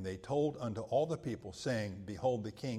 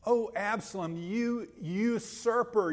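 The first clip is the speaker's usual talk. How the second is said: higher and louder, slow accusing call; accusing cry; 8 semitones higher, 5 dB louder, slower than usual. Retold or imitated. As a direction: denounce the traitor son. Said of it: "He could have said".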